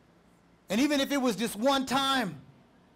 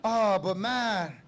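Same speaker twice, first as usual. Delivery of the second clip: slow, lowered mock longing; tempted snacker; much slower than usual. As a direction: drag it out like someone craving a snack. Voices a tempted midnight snacker.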